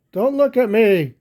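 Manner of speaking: high, loud defiant shout; a little buffalo shouting that he's not little. Acted. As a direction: yell it back, insisting you're tough. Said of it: "Fluff shouted out".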